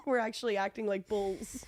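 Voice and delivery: whispering through laughter; breathy giggle while talking; laughing whisper. Real, not acted. Laughing while explaining the joke.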